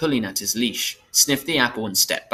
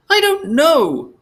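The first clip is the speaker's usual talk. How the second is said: high, loud, drawn-out tearful wail; acted tearful outburst; choked crying; 7 dB louder, slower than usual. A narrator's reading. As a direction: wail it slowly like a crying child. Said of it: "her voice choked".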